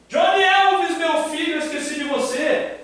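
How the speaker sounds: high, sweet pet-talk voice. Real, not acted. Chamando o cachorro na porta. (voz de falar com cachorro)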